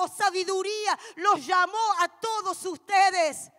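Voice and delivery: loud, impassioned preaching shout; booming sermon cry; full-force preaching. Acted. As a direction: proclaim it to the whole congregation.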